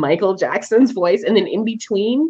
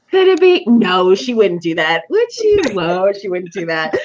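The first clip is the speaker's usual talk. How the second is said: doubting herself. Retold or imitated. Retold inner back-and-forth while reading.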